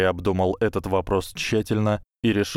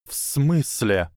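slightly raised, slow hissed question; 5 semitones higher, slower than usual. Acted. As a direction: hiss the question lightly. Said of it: "прошипел Гарри".

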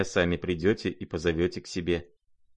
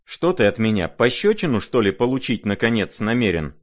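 offended retort; 3 semitones higher, 5 dB louder than usual. Acted. Lizaveta challenging the prince, offended and loud. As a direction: throw the question at him, affronted.

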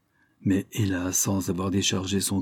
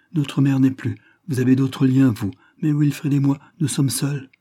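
raised, urgent plea from a loyal sister; impassioned daughter; 3 semitones higher than usual. Acted. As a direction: stand firm for her brother against her father. Maria defends her brother.

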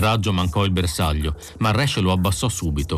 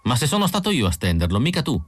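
higher, fast indignant retort; indignant protest; 5 semitones higher, faster than usual. Acted. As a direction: insist it was him, stung. Phil indignantly claiming the kills.

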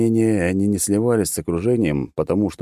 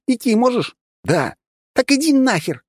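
much higher, curt yelling then cursing; rude childish shout; 3 dB louder than usual. Acted. The girl telling the hero off before running, rude shout. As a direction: bark it and dismiss him. Girl snaps at him, leaves.

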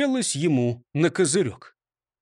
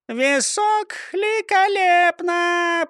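parrot chirp; 12 semitones higher, much slower than usual. A narrator's reading. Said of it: "прощебетала Клара".

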